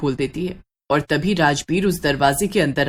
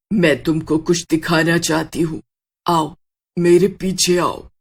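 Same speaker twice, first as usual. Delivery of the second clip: eerie witch voice; 2 semitones lower than usual. Acted. Witch beckons Sheetal in dark.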